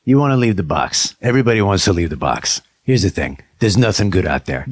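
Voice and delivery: put-on weary old cat warning the new kid. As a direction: lecture the kitten, a little world-weary. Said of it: "He's like".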